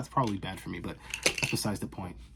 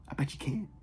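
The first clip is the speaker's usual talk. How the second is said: a voiceless, teasing whisper; 5 semitones higher, 4 dB quieter than usual. Acted. Vlogger dares her viewers in a teasing whisper. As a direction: dare them softly.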